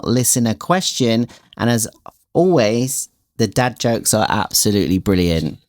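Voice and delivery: upbeat show host read; bright presenter opening; podcast intro. Acted.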